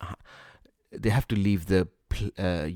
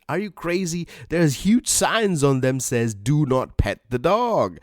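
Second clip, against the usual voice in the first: incredulous retort; 6 semitones higher than usual. Retold or imitated. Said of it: "And the person said".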